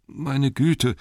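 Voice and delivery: high-pitched flustered hobbit; indignant Bilbo. A narrator's reading. Bilbo answers being called names, flustered. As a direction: protest in a high voice.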